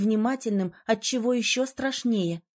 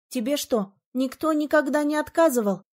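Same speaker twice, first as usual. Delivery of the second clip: amazed, pitch climbing higher; surprised; 4 semitones higher than usual. Acted. Heroine amazed at the spoiled mage's question. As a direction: ask in open astonishment. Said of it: "удивилась я".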